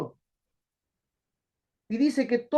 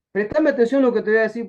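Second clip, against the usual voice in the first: "Prestame" punched, louder; louder plea. Shown as a demonstration. Preacher repeating to the congregation, louder and firm. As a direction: demand attention firmly.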